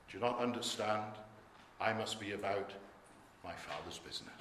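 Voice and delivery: gentle quoted reply, fading to very quiet; respectful and loving. Acted. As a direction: answer lovingly, letting the voice sink low. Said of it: "speaks respectfully and lovingly".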